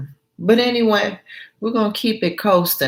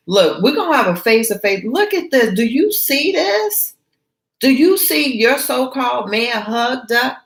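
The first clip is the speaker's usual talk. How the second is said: excited friend; 7 semitones higher than usual. Acted. Ann voiced confronting Gina.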